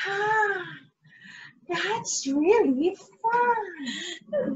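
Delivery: slow, soft, sobbing puppet voice; puppet Crookie. Acted. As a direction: drawl it out tearfully as the puppet. Puppet replies to teacher.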